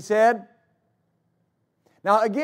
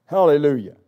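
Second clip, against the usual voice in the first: loud hallelujah; 4 semitones lower, 6 dB louder than usual. Real, not acted. Preacher exclaims praise.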